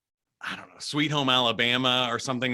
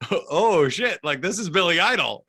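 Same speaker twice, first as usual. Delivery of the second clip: retold starstruck awe; 5 semitones higher, 4 dB louder than usual. Starstruck meeting a rock singer, retold.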